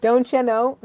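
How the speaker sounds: "Don't you" run together as "doncha"; "cha" in don't you. Shown as a demonstration. Trying to sound normal, slips into "doncha". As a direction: say "Don't you know" with a ch joining the words. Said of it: "you said "cha".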